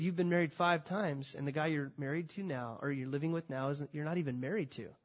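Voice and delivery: gently telling the hard truth; gentle truthful tone. Shown as a demonstration. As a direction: say it kindly, without blame. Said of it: "I think he said".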